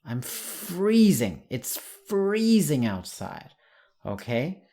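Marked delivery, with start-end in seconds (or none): 0.1-3.5 slow, drawn-out model sentence; slow teacher demonstration; slow demo. Shown as a demonstration. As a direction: say it slowly for learners. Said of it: "say freezing".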